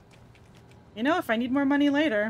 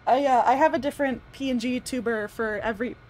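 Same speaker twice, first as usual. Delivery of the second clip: talking with the hiccups; hiccuping between words; 3 dB louder than usual. Real, not acted. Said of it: "Sorry, I have the hiccups".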